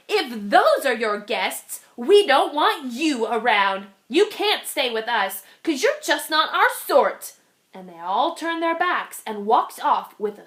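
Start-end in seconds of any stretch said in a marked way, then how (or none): 0.1-7.3 frowning friends. Acted. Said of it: "all of them frowned".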